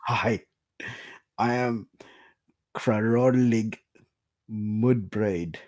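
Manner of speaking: gnome introduction. Acted. Gnome introduces himself to the party.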